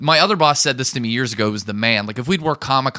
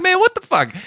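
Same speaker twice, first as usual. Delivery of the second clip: high, loud mock outrage; a hammed-up what-the-hell; retold disbelief; 5 dB louder than usual. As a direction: squeal it in stunned disbelief. Retold shocked reaction.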